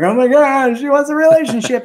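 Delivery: high, loud, hurried panic; mock freak-out. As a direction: burst out in exaggerated alarm at commitment. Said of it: "he starts freaking out".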